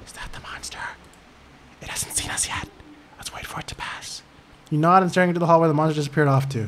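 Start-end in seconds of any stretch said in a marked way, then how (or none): 0.1-4.2 whispering, much quieter and slower. Lily pulls gently at your sleeve and speaks to you: whispering. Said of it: "She whispers".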